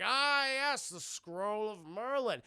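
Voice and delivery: Scottish villain. Retold or imitated. Macbeth voiced reading scroll.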